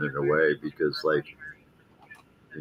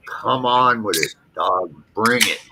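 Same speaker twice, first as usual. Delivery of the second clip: retold yell; 4 semitones higher than usual. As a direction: yell the dare to face down the dog. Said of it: "I just yelled".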